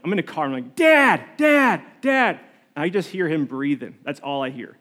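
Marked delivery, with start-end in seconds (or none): 0.7-2.4 high, urgent mock calls to dad; retold yelling. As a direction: call out for dad, imitating a worried yell. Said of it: "I'm, like, yelling".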